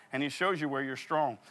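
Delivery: ordinary delivery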